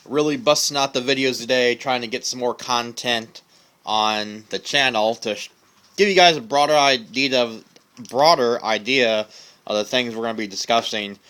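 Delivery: talking around a pipe stem; words muffled by pipe in mouth. Real, not acted. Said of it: "Excuse me, I have my pipe in my mouth".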